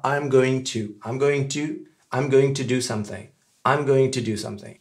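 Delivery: "I'm going to" with both GOING and TO pronounced; careful learner model of "I'm going to", no gonna; full going to. Shown as a demonstration. Teacher modelling the form to stick with, fully pronounced. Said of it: "on va s'en tenir à".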